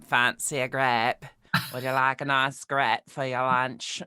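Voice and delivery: put-on send-up of a northern accent; mock Manchester accent; northern English accent. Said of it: "a send up to the north".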